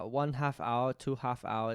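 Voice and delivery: tentative, low-key German accent; trying out a German accent under your breath; German accent attempt. Shown as a demonstration. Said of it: "how do you do a German accent?".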